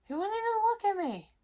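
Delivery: high, loud outrage; indignant. Real, not acted. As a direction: still stung that he ignored her. Ex wouldn't look at her.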